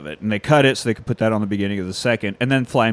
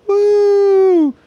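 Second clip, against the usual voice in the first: high shrieking mock whoop; shrieking jackpot winner; 5 dB louder than usual. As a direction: shriek a tired victory woo.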